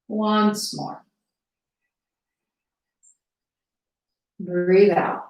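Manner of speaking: measured guiding voice with long pauses; guided meditation. Acted. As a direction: ease them into noticing their breath, unhurried. Leads breathing exercise.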